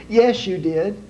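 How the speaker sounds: wife correcting her husband in front of the officer; nagging wife. Acted. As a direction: snap back at him like a fed-up wife. Wife contradicts husband to police.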